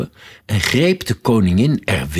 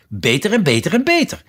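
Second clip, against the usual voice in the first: quick, climbing higher on each repeat; 10 semitones higher, 4 dB louder, faster than usual. A narrator's reading. The queen gets carried away by each better, voice rising. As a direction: raise the pitch with every "Beter". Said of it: "Haar stem werd hoger en hoger".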